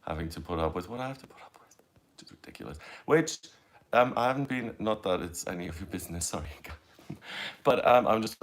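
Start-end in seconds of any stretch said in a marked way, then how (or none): 0.1-2.8 hushed, almost voiceless grumble; whispered aside. Real, not acted. Telling viewers an embarrassing truth, whispered aside. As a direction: drop to a breathy private aside. Muttered aside about her love life.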